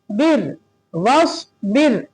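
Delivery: "बिर, वस बिर" with a light r; thin ra. Shown as a demonstration. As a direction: show the fine r closing "बिर". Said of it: "एकदम बारीक".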